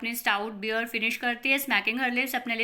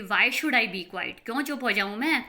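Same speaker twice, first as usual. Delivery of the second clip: angry retort; 3 dB louder than usual. Acted. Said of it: "angrily बोलता है loudly".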